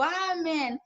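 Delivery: stretched, restrained imitation of a cry; mock shout. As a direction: call it out like the pastor, without full volume. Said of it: "el hermano gritó". (grito imitado y alargado)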